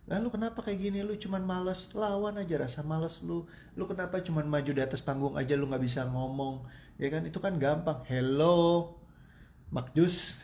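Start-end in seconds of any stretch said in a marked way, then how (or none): 0.1-6.7 mocking scold. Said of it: "buat orang umum ya begitu". 8.1-10.4 sarcastic retort. Pretend.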